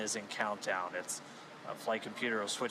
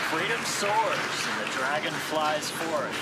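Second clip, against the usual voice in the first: louder, higher and slow; soaring announcer line; 6 semitones higher, 7 dB louder, slower than usual. Real, not acted. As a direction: proclaim it like a launch anthem. Host's scripted launch line.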